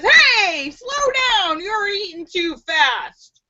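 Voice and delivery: mock annoyed. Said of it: "the other one gets mad and says".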